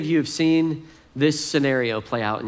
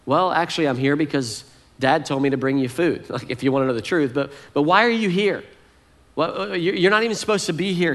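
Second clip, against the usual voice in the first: mock demanding; 2 semitones higher than usual. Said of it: "he demanded".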